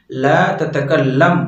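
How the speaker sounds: very slow ला ततकल्लम with a doubled l; teacher pronouncing for students; careful Arabic. Shown as a demonstration. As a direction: draw out ला ततकल्लम. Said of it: "इंत".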